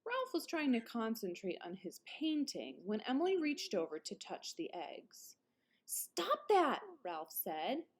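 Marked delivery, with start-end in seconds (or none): 5.9-6.8 put-on boyish scolding. Ralph scolds baby sister.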